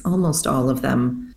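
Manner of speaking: ordinary delivery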